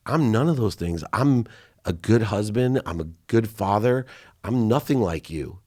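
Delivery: indignant denial. Retold or imitated. Son rebutting his father's accusation, mildly indignant. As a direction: push back, insisting on each claim.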